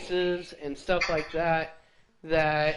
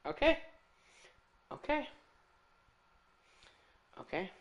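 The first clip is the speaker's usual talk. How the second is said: stunned okay; 8 semitones higher, 8 dB quieter, faster than usual. Real, not acted. Resigned after the odd reward.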